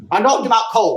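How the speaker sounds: ordinary talk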